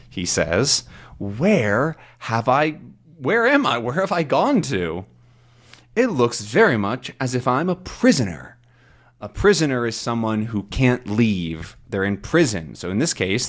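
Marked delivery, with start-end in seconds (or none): 1.2-8.6 lightly acted captive, lifted pitch on the questions; mildly baffled storybook hero; Tintin, bewildered. Voices Tintin waking up captive.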